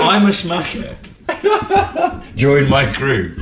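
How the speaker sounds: smackhead voice. Pretend. Mocking a smackhead's Facebook group.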